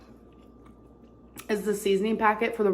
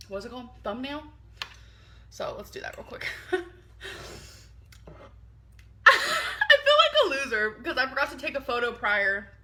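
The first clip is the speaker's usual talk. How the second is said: whispering; 4 semitones higher than usual. Real, not acted. Whispering aside about forgotten photo.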